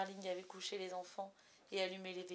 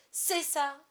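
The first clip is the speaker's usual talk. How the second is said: higher and louder shout; 6 semitones higher, 8 dB louder than usual. A narrator's reading. Father shouting at Wendy, sarcastic and loud. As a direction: yell it sarcastically. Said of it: "cria-t-il".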